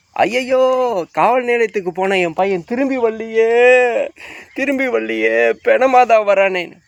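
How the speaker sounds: high-pitched mocking wail of a grieving mother; mock wailing lament. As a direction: parody a mother keening over her son. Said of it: "புலம்புறீங்களா?". (மகனுக்காக ஒப்பாரி வைக்கும் தாயைக் கேலியாகப் பின்பற்றும் உயர்ந்த ஓலம்)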